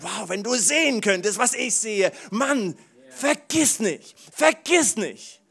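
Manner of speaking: sehr hoch, laut und gedehnt, halb gesungen; Vater von Simba. Pretend. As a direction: ruf es wie ein feierlicher Löwenvater. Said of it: "wie der Vater von Simba und sagt". (halb gesungener, gedehnter Ruf des Vaters)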